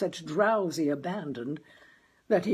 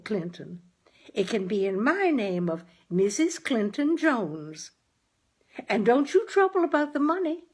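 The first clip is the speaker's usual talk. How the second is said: higher, sweet-talking wife voice; coaxing mother; 4 semitones higher than usual. Acted. Wife coaxing her husband Clinton toward a telephone, higher and sweet. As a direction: wheedle your husband gently.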